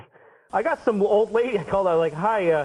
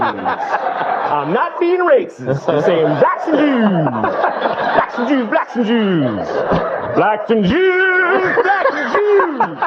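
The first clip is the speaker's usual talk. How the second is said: loud, high, stretched-out shouts; slow, elongated public yelling; platform holler; 9 semitones higher, 6 dB louder, much slower than usual. Acted. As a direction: keep calling it out to the whole platform. Imagined calling out on subway platform.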